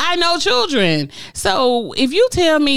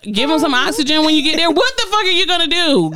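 incredulous rant; 6 semitones higher than usual. Real, not acted. Ranting about date's excuse.

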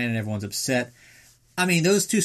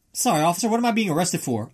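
a rider asking the officer why he is arrested, mock innocent; 6 semitones higher, faster than usual. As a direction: play dumb to the cop. Hooligan voiced talking to police.

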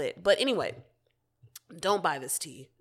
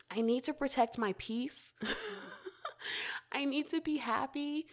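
getting emotional; 7 semitones higher, 5 dB quieter than usual. Real, not acted. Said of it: "I'm kinda getting emotional".

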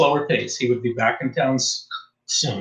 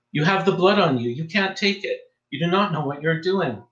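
put-on higher, urgent pleading old priest; 6 semitones higher than usual. A narrator's reading. Old priest calling after the fleeing tourist, pleading. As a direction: plead after him as he runs. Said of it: "The voice of the pleading priest".

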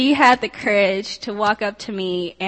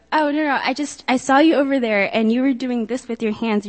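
a light, higher-pitched voice for the friend; eager friend; 3 semitones higher than usual. Retold or imitated. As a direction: imitate her eager, apologetic rush. Friend eagerly explaining herself.

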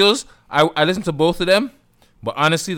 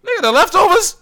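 very high, loud rapper impression; hammed-up, pitched-up rapper rant; 9 semitones higher, 5 dB louder, faster than usual. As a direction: holler it like an outraged rapper. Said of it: "That's my rapper voice".

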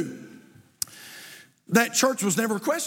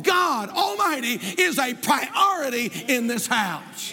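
preaching at full force. Acted. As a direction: build to a ringing declaration. Pastor exclaims gratitude for his parents.

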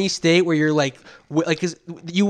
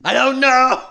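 airy mock lady; 7 semitones higher, 5 dB louder, slower than usual. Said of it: "you have become this lady".

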